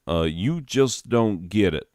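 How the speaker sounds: corrected take in a light Southern drawl. Acted. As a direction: redo "you just don't get it" as the Southern stranger. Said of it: "Southern, there one".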